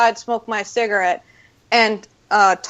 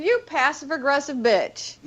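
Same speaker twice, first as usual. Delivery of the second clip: muttered thought; 4 semitones higher, 5 dB quieter than usual. Retold or imitated. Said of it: "and I'm thinking".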